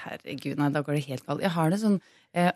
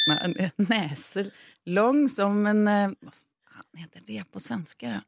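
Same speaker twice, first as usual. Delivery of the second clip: storytelling voice reading a fairy tale; troll folktale telling. Acted. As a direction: read it like a bedtime folktale. Reads folktale aloud in Swedish/Norwegian.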